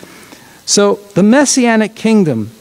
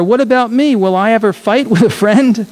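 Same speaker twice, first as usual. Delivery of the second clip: lightly voiced child, a little higher; little girl asking; 4 semitones higher than usual. Pastor reading, Sarah asking her father, lightly childlike. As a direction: ask it like a curious small girl. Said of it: "said Sarah".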